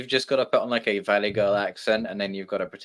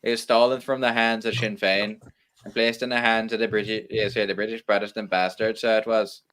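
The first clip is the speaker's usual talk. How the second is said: lightly done Irish accent, hammed rebel talk; mock Irish republican in a faint Irish accent. Full Irish rant for laughs, Irish accent. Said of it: "Let me give full Irish here".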